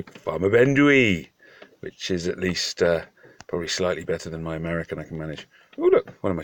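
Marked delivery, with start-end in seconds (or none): 0.0-1.3 slow, careful Welsh phrase from an English speaker; attempted Welsh. English farmer showing off his bit of Welsh, slow. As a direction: sound out the Welsh slowly, a bit unsure. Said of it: "I can do a little bit of Welsh".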